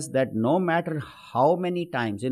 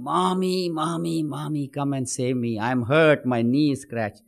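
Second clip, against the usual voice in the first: put-on child crying; 2 semitones higher than usual. Little boy who slipped in the rain calls his mother, mock crying. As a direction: lightly play a hurt little boy calling his mother. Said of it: "And he starts crying".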